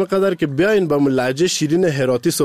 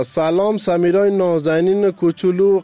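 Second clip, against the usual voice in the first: sweet greeting; 3 semitones higher than usual. Real, not acted. Radio host welcoming little Samira on the line, tender.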